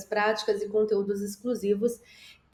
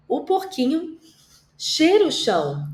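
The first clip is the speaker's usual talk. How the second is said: "porquinho" lifted much higher, "cheira" louder; playful dramatization; 6 semitones higher, 3 dB louder than usual. Shown as a demonstration. Teacher acting out the piglet for children, a touch squeaky. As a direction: lighter replay of the squeaky piglet. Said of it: "ama fazer uma dramatização".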